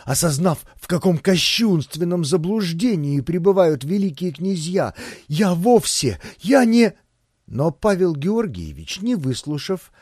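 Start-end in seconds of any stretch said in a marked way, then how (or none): 5.3-6.9 rising, louder stammer; flustered protest. A narrator's reading. Butler protests to the dukes, flustered stammer. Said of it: "вскинулся я".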